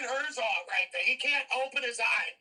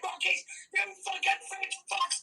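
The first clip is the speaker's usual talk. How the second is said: angry; 5 semitones higher than usual. Real, not acted. Angry rant at the fighter.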